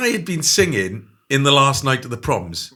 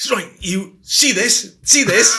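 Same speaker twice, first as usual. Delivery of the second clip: higher and louder, slow and menacing; a mock threatening woman, drawn out; mimicking a fierce patient; 8 semitones higher, 7 dB louder, slower than usual. Imitating the woman at the Priory guarding her mug, slow and menacing. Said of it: "She goes".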